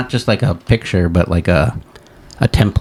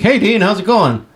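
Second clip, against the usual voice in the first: high, chirpy put-on chatbot voice; Nova the chatbot; 11 semitones higher than usual. Dean imitating his chatbot greeting him, high put-on voice. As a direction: play the AI cheerfully greeting the user. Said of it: "And he's like".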